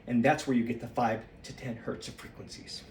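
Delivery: slightly winded from shaking; out of breath. Real, not acted. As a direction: talk a bit out of breath. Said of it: "I'm slightly out of breath".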